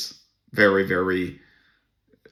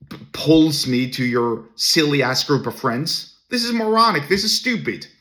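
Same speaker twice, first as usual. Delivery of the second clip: exasperated rant; 3 semitones higher than usual. Retold or imitated. Inner rant at condescending guy.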